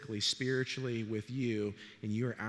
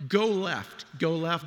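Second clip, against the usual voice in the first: urgent call; 3 semitones higher, 5 dB louder, slower than usual. Pretend. Passenger urging driver left.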